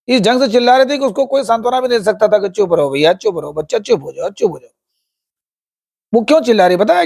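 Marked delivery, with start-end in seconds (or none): 2.5-4.7 soothing hush. Acted. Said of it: "soothing the crying ant".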